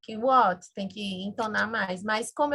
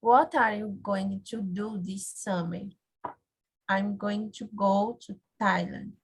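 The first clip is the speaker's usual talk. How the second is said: slow reading with beats on GO and THAILAND; copied rhythm; slower than usual. Shown as a demonstration. Student reading the line for teacher, copied rhythm. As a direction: pace it slowly, leaning on "go". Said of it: "Try to copy the rhythm".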